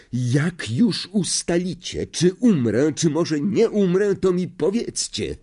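high, sharp outburst; Harry snapping at staring classmates. A narrator's reading. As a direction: snap at them, fed up. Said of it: "wybuchnął Harry tak gwałtownie".

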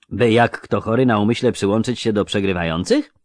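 a lightly voiced earnest youth; curious young clerk; young scribe voice. Jare retorts boldly.

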